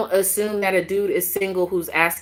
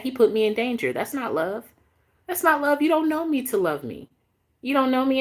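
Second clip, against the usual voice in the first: rising, higher, heated insistence; heated indignation; 8 semitones higher than usual. Real, not acted. Vlogger to viewers, heated and indignant about him. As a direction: climb in pitch as the hurt spills out.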